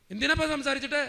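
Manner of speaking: a loud, dismissive father's voice, lightly played; gruff father. Father refusing to hand the phone to mother, loud and dismissive. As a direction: wave off the request bluntly.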